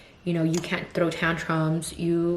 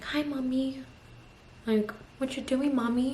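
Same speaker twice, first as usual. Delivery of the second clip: imitating toddler daughter; 7 semitones higher, 6 dB quieter than usual. Mother voicing her toddler daughter.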